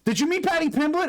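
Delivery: very high mock interviewer voice; Joe Rogan. Interviewer prompting the fighter about a rival, high-pitched impression. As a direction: jump way up in pitch as a hammed-up interviewer. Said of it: "then Joe Rogan would be like".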